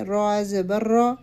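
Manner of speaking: را said full and heavy with zabar; slow, heavy را. Shown as a demonstration. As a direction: give را a thick, full sound. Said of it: "را کو اوپر پڑھتے ہیں".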